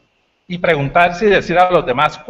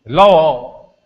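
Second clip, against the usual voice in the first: loud shout of el lobo; proud demo of the caveman's yell; wolf alarm shout; 3 semitones higher, 6 dB louder, slower than usual. Shown as a demonstration. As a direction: show off how well you yell it. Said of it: "Eso lo sé hacer yo bien".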